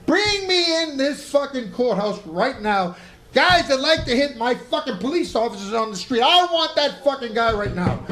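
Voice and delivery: worked-up, drawn-out courtroom tirade; angry judge. Retold or imitated. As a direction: act out an irate judge demanding the culprit. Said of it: "I'm so angry".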